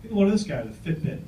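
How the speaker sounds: quick, mock-indignant jab; indignant uncle. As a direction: imitate a mildly indignant uncle, fast. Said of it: "he was all indignant".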